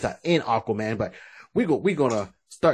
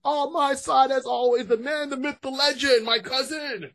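ringmaster; 11 semitones higher, slower than usual. Acted. Announcing the co-host.

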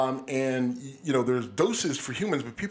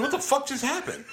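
retold dazed shock; 12 semitones higher than usual. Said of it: "I'm like".

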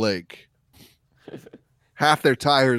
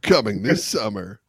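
slow, soft trailer announcer; horror trailer voice; 3 semitones lower, 4 dB quieter than usual. Acted. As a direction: tease it like a scary movie promo. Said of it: "Evil is on a roll was fantastic".

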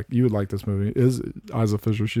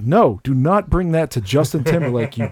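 mock outrage; 3 semitones higher than usual. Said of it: "And they're like".

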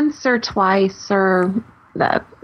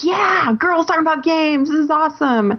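excited; 4 semitones higher than usual. Retold or imitated. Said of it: "everyone's like".

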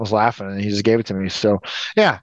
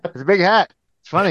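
Norm Macdonald impression; 6 semitones higher, faster than usual. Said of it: "a great Norm Macdonald impression".

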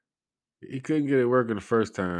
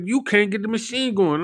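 mock attendant; 14 semitones higher, 7 dB louder than usual. Retold parking attendant argument.

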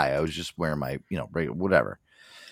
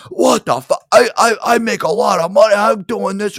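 higher, louder mock tirade; dad losing it; 11 semitones higher, 8 dB louder than usual. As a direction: play the father snapping in the restaurant. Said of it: "he's fucking going off the fucking deep end".

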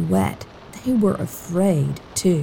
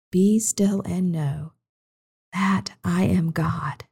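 slow fading whisper of the verse; hushed repeat; 4 dB quieter, slower than usual. Shown as a demonstration. Minister repeating the verse to children, slow and whispered. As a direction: let it fade to a whisper. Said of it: "softer repetition".

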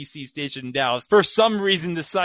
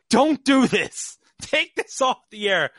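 higher, louder, drawn-out mock yell; retold yelling; 8 semitones higher, 4 dB louder than usual. Sports director running in at the producer, yelling. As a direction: yell it like a man bursting in to stop them. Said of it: "runs into the room yelling at the producer".

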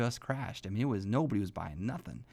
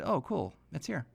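put-on calm kid; 4 semitones higher than usual. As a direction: say it like a kid who knew all along. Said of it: "Like, he was really calm".

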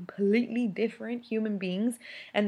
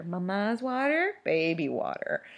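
drawn-out teasing; slower than usual. Pretend. Mom slowly taunting her future child, sing-song. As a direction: stretch it out like a taunting chant.

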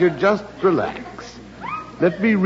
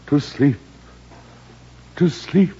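Shakespeare recital; 4 semitones lower than usual. Acted. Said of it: "Let me read you Hamlet's soliloquy".

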